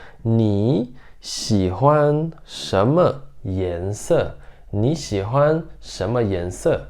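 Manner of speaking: "你喜欢什么颜色" read slowly in Mandarin; Mandarin question, slow. Shown as a demonstration. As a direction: model the Mandarin question carefully. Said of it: "que seria". (pergunta em mandarim, devagar)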